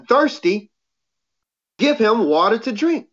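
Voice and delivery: measured, even scripture read to the congregation. Acted. Preacher reading Proverbs to his listeners, measured. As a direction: read the verses out steady and full.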